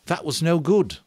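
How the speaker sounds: Ralph voice. A narrator's reading.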